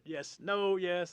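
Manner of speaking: high, loud, quick rebuttal; insistent. Retold or imitated. Storyteller defending punchline to listener, loudly insistent. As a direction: push back eagerly. Insists the joke will work.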